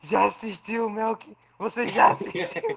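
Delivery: nagging friend. Retold or imitated. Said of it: "ele falando assim".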